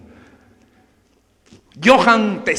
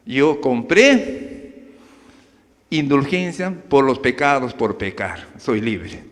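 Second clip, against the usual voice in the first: slow defiant claim; 6 semitones lower, slower than usual. Acted. Beaten man defends himself.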